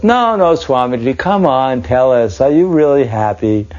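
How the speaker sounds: put-on high, insistent plea from a young man; pressing student. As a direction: push him, half teasing, to answer. Boy pressing the swami.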